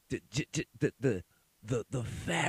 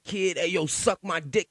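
a higher, hammed-up New York tough guy; mock New York tough; 6 semitones higher, 3 dB louder than usual. Mocking how he's starting to talk, in a hammed-up New York accent. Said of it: "I'm about to start saying".

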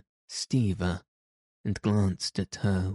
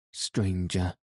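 pain and wrath. A narrator's reading. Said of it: "With pain and wrath".

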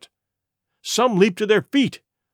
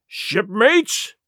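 cried out; 3 semitones higher than usual. Acted. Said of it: "he cried".

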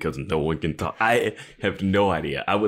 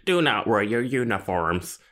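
robot voice; 3 semitones higher, slower than usual. Retold or imitated. Continuing the computer voice quote.

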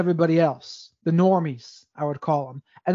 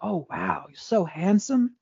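lightly imitating a soft Brazilian accent, softer and slow; a mild Brazilian-accented compliment, hushed and drawn out; slower than usual. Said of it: "in her Brazilian little soft accent".

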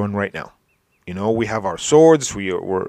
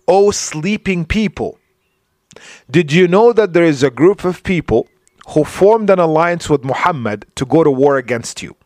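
raised, higher-pitched imitation of someone yelling a warning; retold yell; 5 semitones higher, 4 dB louder than usual. Preacher retelling the devil's warning to Mecca, mock yelling. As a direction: call out to rouse sleepers, a restrained yell. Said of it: "a very loud voice yelling".

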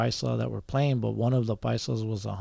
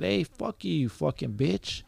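retold angry insult; 5 semitones higher, slower than usual. Scorekeeper cusses back at player, retold anger. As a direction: replay cussing someone out at contained volume. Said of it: "I was getting mad".

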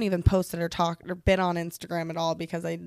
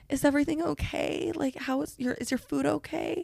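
higher, gentle worried waiter; concerned check-in; 7 semitones higher than usual. Retold or imitated. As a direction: imitate someone carefully checking on you. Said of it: "checking on me".

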